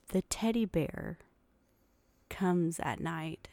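put-on slow, whispered child's voice; scared child. Dad imitating his son's whispered fear, slow and hushed. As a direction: breathe it out like a spooked kid. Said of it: "And he goes".

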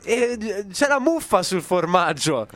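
put-on light Apulian grandmother accent; a hint of Apulian dialect. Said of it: "con, eh, un accento pugliese che io non so fare".

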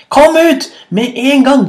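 high, loud command; angry shout. A narrator's reading. Hyena ordering rabbit out of cave, shouting angrily. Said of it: "ropte hyene".

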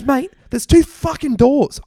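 hammed-up angry correction; mock exasperated. The speaker telling David about the doors, exasperated. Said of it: "full, like, blowing up".

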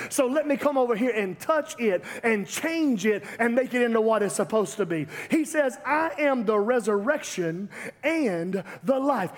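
emphatic preacher driving the point home, building; punchy sermon delivery, climbing at the end; impassioned preaching. Real, not acted. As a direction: preach it with rising urgency. Preaching with rising force.

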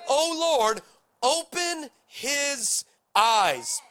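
high, very slow pleading prayer; fervent prayer. Acted. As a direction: stretch it out, begging God. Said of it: "Elisha prayed".

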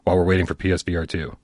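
sigh, then let it sag; weary sigh. Acted. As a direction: act out tired, deflated waiting. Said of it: "we're all just going".

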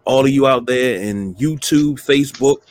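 booming show-opener welcome; grand entrance announcement. Real, not acted. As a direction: hype up the crowd like a ring announcer. Host opens show to audience.

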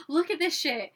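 agitated dad. Retold or imitated. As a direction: show off the outrage as dad. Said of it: "more agitated as he's pouring coffee".

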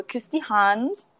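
drawn-out, slow Viennese greeting; Viennese accent. Shown as a demonstration. Friend showing the only Viennese she can imitate, Viennese accent. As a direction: imitate Viennese, stretching the phrase. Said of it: "Ich kann nur so".

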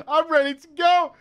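hammed-up eager raider ready to go; mock hype. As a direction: ham up a cocky gamer. Mocking his eager younger self.

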